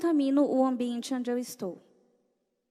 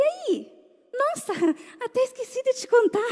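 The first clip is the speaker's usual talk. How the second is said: laughing; 10 semitones higher than usual. Retold or imitated. Mother returns laughing.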